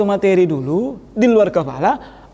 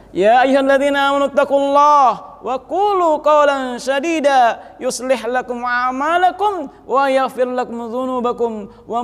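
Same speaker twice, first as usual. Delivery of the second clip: steady chanted recitation of the verse; measured Arabic chant, holding the long vowels; Quranic recitation; slower than usual. Shown as a demonstration. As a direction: intone it as a khutbah opening.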